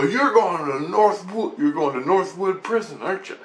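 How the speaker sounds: mock psychic pronouncement. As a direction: imitate a psychic making an excited revelation. Retold psychics' ominous pronouncement.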